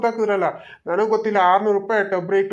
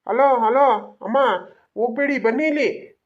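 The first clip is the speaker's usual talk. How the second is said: raised, higher call after someone leaving; 4 semitones higher than usual. Acted. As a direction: call them back before they walk off. Vendor calls departing customers back.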